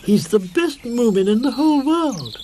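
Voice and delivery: high, heated defence; indignant. A narrator's reading. Snork Maiden defends Moomintroll, high and heated. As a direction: insist fiercely.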